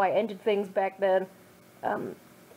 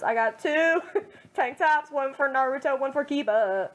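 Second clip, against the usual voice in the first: laughing mock boast; 3 semitones higher than usual. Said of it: "No, it's".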